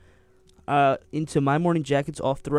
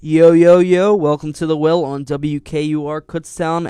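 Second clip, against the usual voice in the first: hype radio greeting; 6 dB louder than usual. Real, not acted. DJ opening radio show.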